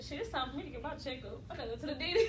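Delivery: quiet, low-key hint; low and casual, like a passing remark; casual suggestion. Acted. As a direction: drop it in softly and offhand. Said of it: "You can do it like this".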